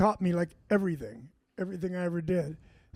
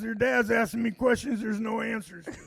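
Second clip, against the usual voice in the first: exasperated shout; 2 semitones higher than usual. Retold or imitated. Exasperated friend retold.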